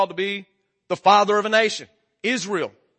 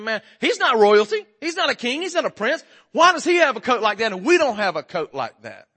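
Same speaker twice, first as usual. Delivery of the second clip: jealous complaint; 4 semitones higher, 4 dB louder than usual. Retold or imitated. Acts out jealous brothers' complaint.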